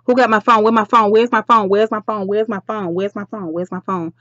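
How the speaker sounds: repeated in a rush, trailing away; frantic searching. Acted. Duchess hunts through the shop for her phone, frantic searching. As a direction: ask over and over while hunting.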